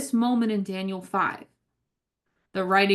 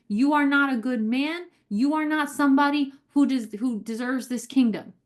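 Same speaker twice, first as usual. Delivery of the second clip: emphatic, higher-pitched acted verdict on a failed king; harsh condemnation; 3 semitones higher than usual. Preacher voices the judgment on Belshazzar, harshly condemning. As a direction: pronounce judgment, driving each sentence home. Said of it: "it's a very harsh condemnation".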